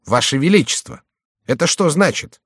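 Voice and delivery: puzzled echo, pitch jumping up; baffled astonishment. A narrator's reading. Chicot puzzles over the title he overheard, baffled.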